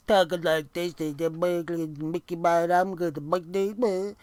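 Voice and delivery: mock the stuffy-nosed promo like a kid with a cold; a hammed-up Porky Pig with a head cold; imitating a congested voice. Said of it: "He sounded like a sick little kid".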